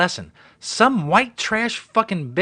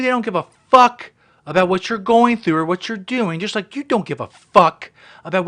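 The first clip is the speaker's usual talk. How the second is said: angry rant; 3 semitones higher, 5 dB louder than usual. Real, not acted. Ranting louder.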